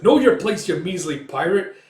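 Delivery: high, loud opening burst, easing off; indignant shout. Retold or imitated. Coin to the pirate, indignant shout. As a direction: put the villain in his place. Crew member answers pirate's taunt.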